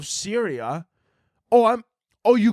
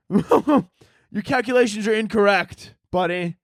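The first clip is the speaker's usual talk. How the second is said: nerdy scientist voice; 3 semitones higher, slower than usual. Retold or imitated. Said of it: "and he's like".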